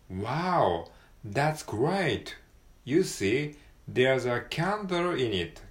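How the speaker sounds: lively read, candle in it drawn out slowly; model sentence read aloud. Shown as a demonstration. Teacher reading a sample dialogue aloud for students. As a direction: read it like an excited textbook dialogue. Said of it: "sample sentence read as a model".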